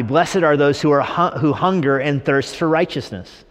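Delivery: slow, deliberate verse reading; straight scripture reading. Acted. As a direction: lay the verse out plainly.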